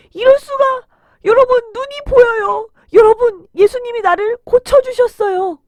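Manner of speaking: high, loud, amazed cry; overjoyed shout. Acted. Healed beggar tells the crowd he can see, overjoyed shout. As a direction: shout the miracle out to everyone.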